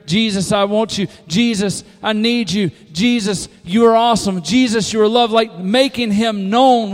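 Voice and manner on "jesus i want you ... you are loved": loud, raised cries of worship; exuberant praise. Acted. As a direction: call out to Jesus with mounting fervor. Acting out shouted praise to Jesus.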